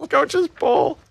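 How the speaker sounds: high, hammed-up announcer; mock announcer voice. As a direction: say it like a cheesy promo.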